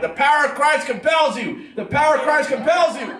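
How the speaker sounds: theatrical exorcist shout; mock exorcist. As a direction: bellow it like a priest casting out a demon. Mock exorcism chant at screaming kid.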